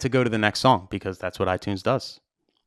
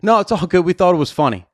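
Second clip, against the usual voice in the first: quoting the couple; 6 semitones higher, 5 dB louder than usual. Retold or imitated. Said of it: "I'll never forget, like, that conversation".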